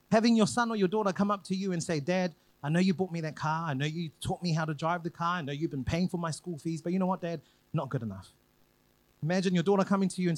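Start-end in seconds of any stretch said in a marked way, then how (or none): 2.0-8.3 put-on lower, quieter, sulky child dropping to a dismissive "not good enough"; ungrateful child. Child telling dad his gifts aren't enough, in a lower sulky voice. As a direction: brush off dad's gifts flatly.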